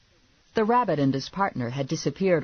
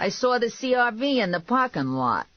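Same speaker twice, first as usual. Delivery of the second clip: high-pitched calling out; yelling; 9 semitones higher than usual. A narrator's reading. Man calling through her locked door, yelling. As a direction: yell it up high, insistently. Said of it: "Vinny yelled".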